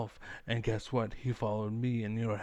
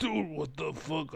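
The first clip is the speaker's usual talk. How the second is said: exasperated dude; 4 semitones higher than usual. Retold or imitated. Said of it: "I'm like".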